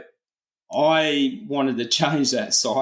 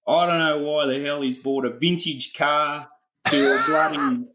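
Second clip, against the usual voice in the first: lightly voiced indignant young bloke, a bit higher; mock the son's entitled complaint; typical Gen Z; 5 semitones higher than usual. A hint of a Gen Z son grumbling about the old ute. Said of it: "typical Gen Z".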